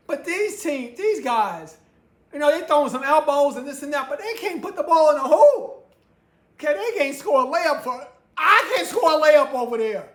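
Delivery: mocking laughter at bad shooting; laughing rant. Real, not acted. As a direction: laugh in disbelief at the misses. Mocking teams who can't score.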